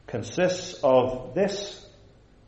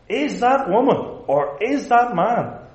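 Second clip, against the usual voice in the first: much higher-pitched, exaggerated questioning; mock anxious doubting; 10 semitones higher, 4 dB louder than usual. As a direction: act out absurd doubt, voice pitched way up. Acting out absurd doubt about parents.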